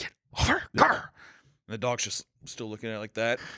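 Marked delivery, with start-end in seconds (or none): 0.0-1.1 hushed, soft, drawing-in whisper. Retelling calling the dog over at night: imitating own whisper. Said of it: "I kinda whisper".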